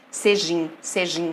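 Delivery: "sejim" as one joined word, the vowels merged; slow, elided "sejim", said as a single unit; words run together. Shown as a demonstration. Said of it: "Vai juntar". ("sejim" pronunciado junto, com elisão)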